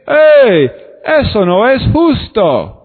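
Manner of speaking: un "Hey" fuerte y agudo, luego queja; protesta en voz alta. Acted. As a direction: grita su protesta contra Dios. El mismo hombre protesta. (el hombre protesta a Dios, en voz alta)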